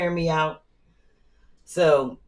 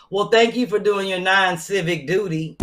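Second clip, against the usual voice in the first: sarcastic thanks; 2 semitones higher than usual. Retold or imitated. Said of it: "And you know what I said".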